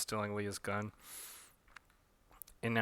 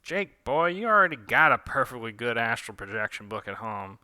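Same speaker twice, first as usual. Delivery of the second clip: scolding grandmother; 7 dB louder than usual. Acted. Gran telling Jake off about the book, scolding. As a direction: scold the boy like a fussy grandmother.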